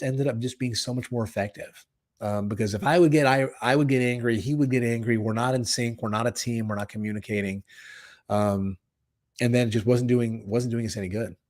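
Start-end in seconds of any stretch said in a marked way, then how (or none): none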